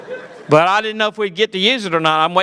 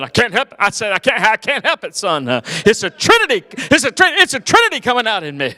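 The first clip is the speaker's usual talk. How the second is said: imitating dad preacher; 3 semitones higher than usual. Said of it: "Dad, how come you talk like that".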